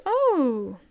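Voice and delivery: high, drawn-out cry of delight; Luffy's outburst. Retold or imitated. Reading Luffy greeting his friends, high drawn-out cry. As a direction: stretch out a joyful yell at his friends. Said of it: "And Luffy like".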